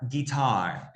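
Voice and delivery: Guitar with the weight on TAR; stress on last syllable. Shown as a demonstration. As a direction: land on the end of Guitar, gui-TAR. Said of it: "el acento va en la última".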